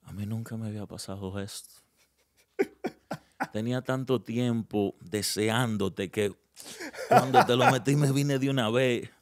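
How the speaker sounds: a hint of a shy, ashamed man pleading; lightly voiced embarrassed guy apologizing; mock sheepish confession; timid excuse. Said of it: "Cómo que se pone, pues? Así".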